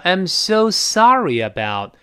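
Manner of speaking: sorry about with a y glide; sorry-yabout, stretched; linked sorry about. Shown as a demonstration. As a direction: slowly join sorry to about through "ye". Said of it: "中间都有个耶来过渡".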